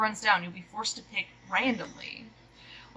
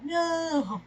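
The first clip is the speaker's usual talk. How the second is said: dramatic no; 8 semitones higher than usual. Acted. Dog reacts to wrong answer.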